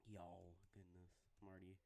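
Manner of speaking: southern accent. Real, not acted. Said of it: "transitioning to the southern accent".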